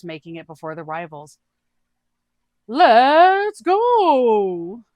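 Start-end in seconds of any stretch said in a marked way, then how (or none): 2.7-4.8 high, loud character yell. Acted. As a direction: shout it to rally the team forward. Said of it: "yells Doog".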